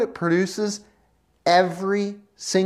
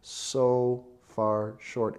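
soft, low confession; humbled confession; 7 semitones lower, 8 dB quieter than usual. Acted. Believer seeing Jesus, soft low confession. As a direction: murmur it in awe. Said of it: "we are like".

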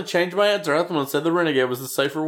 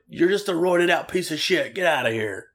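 dismissive Bill Watts; 6 semitones higher than usual. Retold or imitated. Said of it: "Bill's like".

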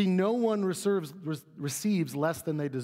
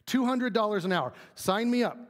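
higher, keen exclamation; eager acceptance; 6 semitones higher than usual. Acted. Preacher playing someone offered two hundred an hour, eager. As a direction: jump at the offer with a lifted voice. Acting out an eager worker's response.

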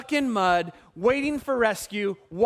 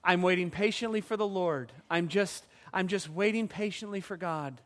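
soft, low, meekly pious; mock Christianese; 4 semitones lower, 6 dB quieter than usual. Preacher mocking churchy talk about waiting on God, meek soft voice. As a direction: say it quick and mild, like a churchy platitude. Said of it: "this is not your Christianese".

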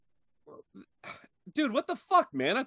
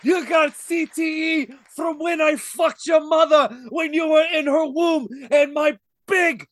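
wrestling promo shout; 4 dB louder than usual. Acted.

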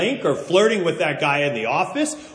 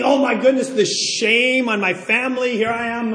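higher-pitched mock dismay; retold dismay; 5 semitones higher than usual. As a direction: fret over the family shame. Retelling his panicked thoughts.

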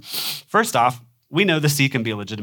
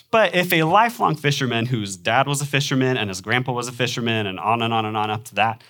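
normal talking voice

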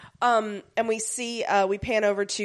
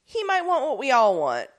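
lightly voiced Ibis; 5 semitones higher than usual. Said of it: "Ibis is like".

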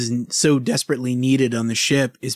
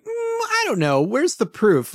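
mock council; 12 semitones higher than usual. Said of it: "they talk to a council like".

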